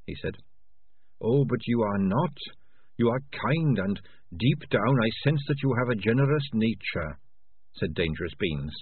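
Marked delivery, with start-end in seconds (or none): 1.2-7.2 lightly voiced, kind little rat; gently insist, a little higher; a hint of an earnest rat character; kindly earnest rat. Voices the rat Dangerous Beans.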